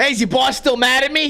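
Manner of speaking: put-on New Jersey accent. Speaker retells a guy's question while fixing a slot machine; jersey accent. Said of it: "It's it's kind of like a Jersey accent".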